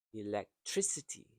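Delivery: "electricity" with emphasis on "tri"; stress on third syllable. Shown as a demonstration. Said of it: "stressed and prolonged".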